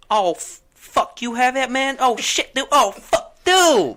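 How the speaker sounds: high, loud imitation of a thrilled guy; retold amazed customer. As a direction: blurt it out in an overwhelmed high voice. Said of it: "have him repeat everything he said".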